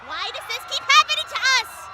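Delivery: high-pitched, exasperated cry; distressed wail. Acted. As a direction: wail it in dismay. Wails as chaos breaks out.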